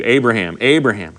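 name repeated with emphatic familiarity; each "Abraham" given its own falling, earnest weight; term of endearment. Shown as a demonstration. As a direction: call "Abraham, Abraham" like someone you know intimately. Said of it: "it's also a term of endearment".

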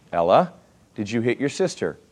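father's question. Retold or imitated. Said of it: "I ask my kids that all the time".

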